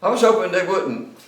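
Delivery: amused admission, laughing. Real, not acted. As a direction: chuckle while confessing.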